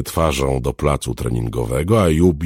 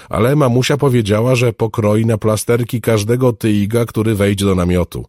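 put-on high, louder child's boast; keen little girl; 9 semitones higher, 7 dB louder than usual. Girl repeats her mother's threat, keen. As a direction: report it in an excited girlish pitch.

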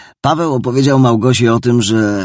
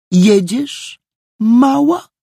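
menacing; 4 dB louder, much slower than usual. A narrator's reading. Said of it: "takim głosem, że Małgosia bała się".

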